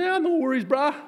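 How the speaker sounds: laid-back clerk. Retold or imitated. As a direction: toss it off like a relaxed island clerk. Voicing cashier's casual reply.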